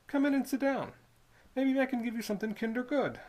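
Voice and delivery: put-on sly old toll keeper coaxing the boy; Squids' voice.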